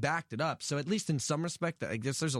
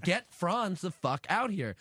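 mock yell, higher and drawn out; retold yelling; 5 semitones higher, slower than usual. Singer yelling at tour manager for Franz, retold mild yell. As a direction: re-enact a demand yelled at the bus, stretched out. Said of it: "like, yelling".

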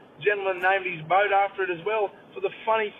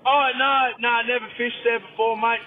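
higher-pitched mock protest; puzzled denial; 7 semitones higher, 4 dB louder than usual. Client answering the masseuse about a fishing spot, mock denial. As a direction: wave off the question, pitched up. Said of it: "He goes".

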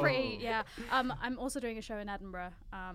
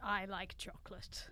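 whisper; 4 semitones lower, 11 dB quieter, slower than usual. Acted. Ken whispers in the scene.

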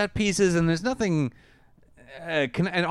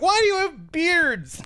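mocking question; 13 semitones higher, slower than usual. Mocking the movie robots.

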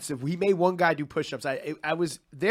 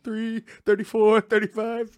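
push-up counting; 5 semitones higher, slower than usual. Retold or imitated. Imitates someone counting push-ups alone.

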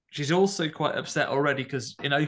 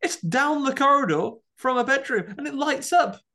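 laughing disbelief; 14 semitones higher, 4 dB louder than usual. Real, not acted. Laughing incredulous rant.

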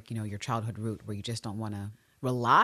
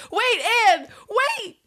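high-pitched urgent call; calling after her; 7 dB louder, much slower than usual. Acted. Ann Walker calling after departing Ann, desperate. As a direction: plead loudly for her to stop. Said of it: "like, she calls after her".

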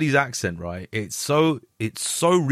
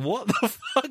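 high, laughing disbelief; mock bewilderment breaking into a laugh; baffled reaction; 12 semitones higher, slower than usual. Listener reacting to the muddled patois, high-pitched and baffled. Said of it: "You're like".

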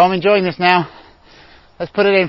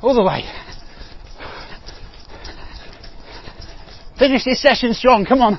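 coach shouting; 7 semitones higher, 6 dB quieter than usual. Real, not acted. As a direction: yell them through the last stretch. Coach shouting final sprint.

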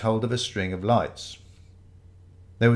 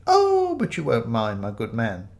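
put-on elderly vicar. Fake vicar placates Ramage, slow and quavery. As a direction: politely brush him off as an old vicar.

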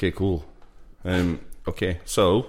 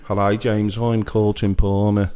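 put-on Colton Palmer Peaky Blinders accent. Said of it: "It's Colton Palmer in Peaky Blinders now".

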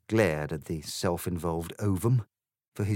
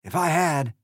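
loud, higher, blustering egg voice; Trumpty Dumpty; 8 semitones higher, 6 dB louder than usual. Acted. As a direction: boom it like a boastful tycoon.

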